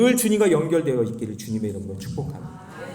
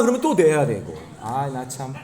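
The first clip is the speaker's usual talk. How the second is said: ordinary talk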